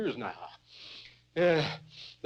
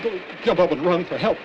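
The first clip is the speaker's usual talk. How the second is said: urgent yell; 4 semitones higher, 4 dB louder than usual. Acted. Injured man orders brother for help.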